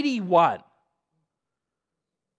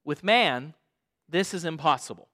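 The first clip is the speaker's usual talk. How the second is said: calm scripture voice; 5 semitones lower than usual. Acted. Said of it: "Jesus looked at them and said".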